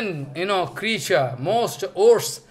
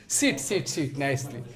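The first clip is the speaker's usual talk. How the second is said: welcoming; 6 semitones lower, 8 dB quieter than usual. Retold or imitated. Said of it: "coming laughing and embracing".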